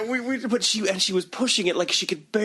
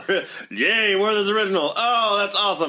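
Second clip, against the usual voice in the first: higher-pitched pretend gratitude; mock delight; 4 semitones higher than usual. Visitor offered old people's candy, mock delight. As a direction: gush politely over a humble treat. Mimics thanking elderly for candy.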